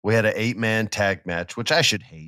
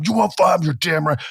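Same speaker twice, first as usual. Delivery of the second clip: higher, louder challenge; defiant; 7 semitones higher, 3 dB louder than usual. Retold or imitated. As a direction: answer him with swagger. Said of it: "Adam Cole's".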